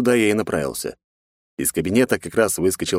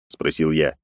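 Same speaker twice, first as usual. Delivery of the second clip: usual speaking voice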